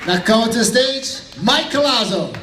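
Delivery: shouted stage introduction; announcer call. Real, not acted. Host calling Mike Colazo to the stage, shouting. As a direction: call him up like an MC.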